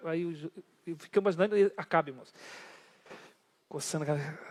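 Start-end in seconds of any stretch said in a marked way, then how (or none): none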